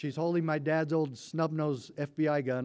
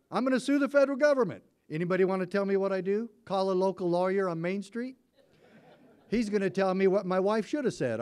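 higher, louder, fast mock-outraged rant; exasperated inner rant; 6 semitones higher, 4 dB louder than usual. Sheriff retelling his panic, mock-outraged and fast. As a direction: rattle off his frustration half-laughing.

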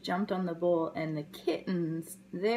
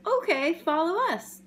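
high, louder kitten invitation; cat voice; 8 semitones higher, 4 dB louder than usual. Acted. Cat inviting the puppy along, high and eager. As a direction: chirp it like a friendly cat. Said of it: "And the cat said".

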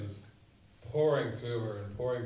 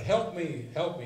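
pleading; 5 semitones higher, 3 dB louder than usual. Retold or imitated. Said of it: "it was pleading".

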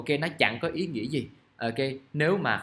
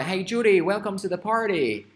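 1 dialogue reading; 7 semitones higher, 5 dB louder, slower than usual. Acted. Teacher acting out dialogue.

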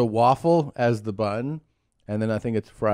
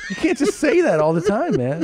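higher, louder mock scolding; scolding dad; 11 semitones higher, 4 dB louder than usual. Dad scolding his son for cursing, higher and louder. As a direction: tell the kid off, half laughing. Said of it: "And I go".

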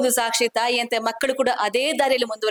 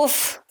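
tired puff; 3 dB quieter, much slower than usual. Real, not acted. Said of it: "ನಂಗೆ ಆ count ಮಾಡಿ ಸುಸ್ತಾಯ್ತು".

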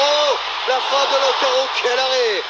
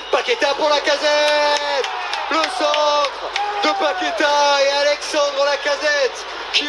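play-by-play; slower than usual. Acted. Live play-by-play commentary.

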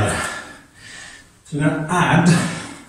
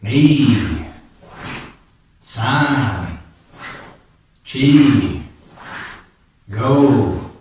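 sharp martial arts commands; much slower than usual. Real, not acted. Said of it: "A little bit faster".

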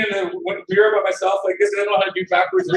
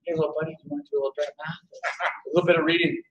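soft, low, hurried imitation of whispering; retold whisper; 4 semitones lower, 6 dB quieter, much faster than usual. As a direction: murmur it low, as if into a child's ear. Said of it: "I just whisper in his ear".

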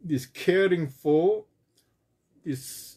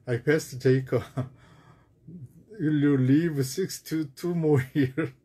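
laughing mock question; 2 semitones lower than usual. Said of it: "Some people may say".

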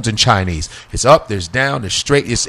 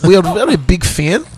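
broken English like a Russian promoter; imitating Russian festival organizers inviting him; Russian promoter accent; 5 semitones higher than usual. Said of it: "They were like".

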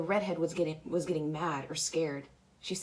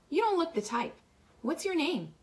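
put-on much higher-pitched girl's line; girl character; 11 semitones higher than usual. A narrator's reading. Redhead asking Pony Boy his name, high-voiced. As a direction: lift the pitch well up for the girl.

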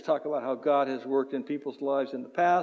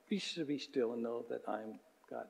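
near-hushed verse, much softer; very soft recitation; 5 semitones lower, 13 dB quieter than usual. Shown as a demonstration. Pastor repeating the verse for the church, hushed. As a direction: breathe the verse out gently. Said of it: "It's not, not very long".

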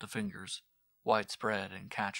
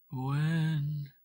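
higher, firm demanding "When?"; insistent; 7 semitones higher, 7 dB louder than usual. Acted. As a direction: press for an answer. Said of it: "she insisted".

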